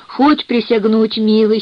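ordinary delivery

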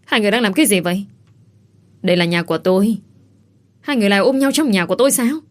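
wife catching husband hugging another woman, yelling; furious yell. Acted. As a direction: scream it out in jealous rage. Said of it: "giọng của cô hét lớn cực độ".

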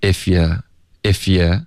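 if you run together as one word, "if-ya", very slow; if you linked. Shown as a demonstration. Teacher slowly demonstrating if you with you weakened to ya. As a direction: if you, f sliding straight into a weak "ya". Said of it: "You这个字我们又弱读为ya".

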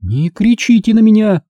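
indignant cry. A narrator's reading. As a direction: fire it back at him. Margo answers his shout.

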